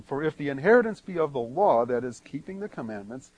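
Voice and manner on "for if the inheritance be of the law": fast, even reading of the verse; quick reread. Shown as a demonstration. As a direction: run through the verse briskly. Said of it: "Let me read eighteen again".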